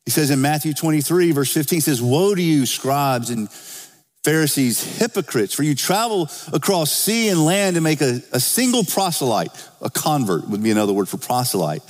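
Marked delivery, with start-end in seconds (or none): 2.0-9.5 raised-pitch Bible reading; preacher quoting scripture aloud. Acted. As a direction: read the verse out to the congregation, pitched up.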